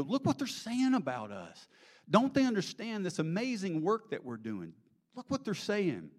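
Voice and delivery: put-on high-pitched, indignant young complainer; acted high-voiced dismay; upset son. Upset son complains to his father.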